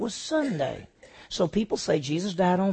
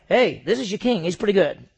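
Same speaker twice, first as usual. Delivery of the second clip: loud, upbeat, proud presentation of a king; proud showman; 4 semitones higher, 8 dB louder than usual. Shown as a demonstration. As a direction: announce him like a prize. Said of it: "this is not like".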